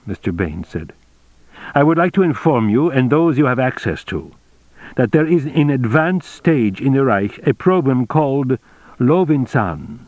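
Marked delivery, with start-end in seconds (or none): 1.7-10.0 lightly voiced, higher formal captain; a hint of an officer giving intelligence; Baines, formal briefing. Baines informs the general of a program, lightly voiced formality.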